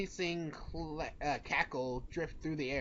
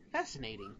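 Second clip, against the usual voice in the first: lower, soft, bored yawn; 8 semitones lower, 6 dB quieter than usual. Acted. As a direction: yawn the word out. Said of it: "you yawn".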